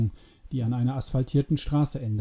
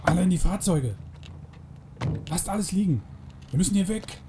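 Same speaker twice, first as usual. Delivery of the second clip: restrained yell, pitched up to hurry everyone; urgent shout; 5 semitones higher, 4 dB quieter than usual. A narrator's reading. Freeman ordering everyone into the vehicles, urgent shout. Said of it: "schrie Freeman".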